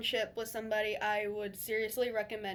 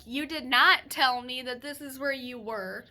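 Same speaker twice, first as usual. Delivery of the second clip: loud, mildly exasperated telling-off; retold cranky scolding; 2 semitones higher, 5 dB louder than usual. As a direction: re-enact scolding a boyfriend, punching the volume. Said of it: "I was fucking cranky".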